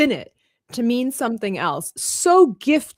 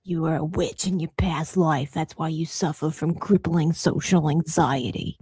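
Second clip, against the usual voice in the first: lightly mimicked Caribbean medium; matter-of-fact Caribbean-accented psychic; Madame Cleo; 4 semitones lower than usual. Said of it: "the Caribbean medium".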